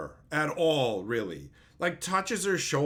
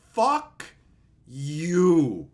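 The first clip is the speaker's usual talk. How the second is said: loud, spat out; angry outburst; 6 dB louder than usual. Real, not acted. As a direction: curse at them. Ranting at fans.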